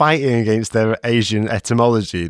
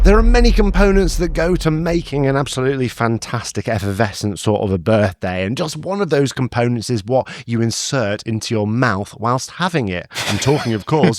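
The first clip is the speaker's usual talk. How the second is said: segment intro; 4 semitones higher than usual. Acted. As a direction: introduce the segment with mock ceremony.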